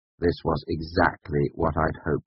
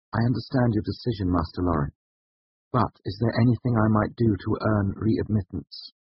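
higher, anxious, polite appeal; restrained desperation; 6 semitones higher than usual. A narrator's reading. Student asking to earn readmittance, politely desperate. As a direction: try to keep desperation out of your voice. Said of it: "unable to keep my voice entirely free of desperation".

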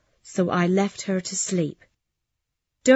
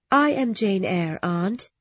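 gently. Acted. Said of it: "I told her gently".

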